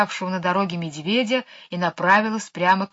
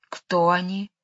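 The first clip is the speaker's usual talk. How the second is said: sweet voice that chills the blood; tender snake voice; slower than usual. Acted. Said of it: "своим нежным голосом". (нежный леденящий голос кобры)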